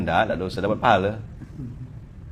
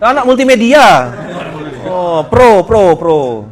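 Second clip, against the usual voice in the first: excited exclaim; 3 semitones higher, 8 dB louder, much slower than usual. Acted. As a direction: call it out with playful excitement. Joking exclaim.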